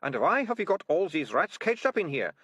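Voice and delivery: high, loud accusing snap; snapping. A narrator's reading. Militia accusing the ratcatchers, loud and high. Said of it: "snapped Militia".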